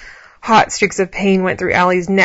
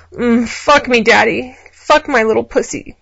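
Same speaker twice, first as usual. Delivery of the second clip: cooing; 4 semitones higher, 5 dB louder than usual. A narrator's reading. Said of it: "she cooed".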